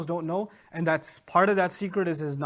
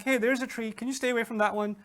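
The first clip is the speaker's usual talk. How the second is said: casual, easygoing request; relaxed, no threat in it; chill; 3 semitones higher than usual. Retold or imitated. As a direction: toss it off as a mild favor. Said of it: "He seems pretty chill about the whole thing".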